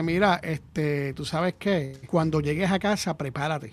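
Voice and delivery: very slow, menacing warning from mom. Retold or imitated. Mom crouching to warn her son at the friend's house, slow threat. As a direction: draw it out like a mother promising punishment later.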